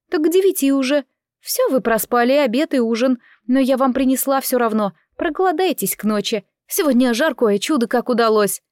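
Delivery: a hint of a servant coaxing someone to eat; mildly scolding, caring maid; chatty maid, fussing. Narrator voices the chatty maid.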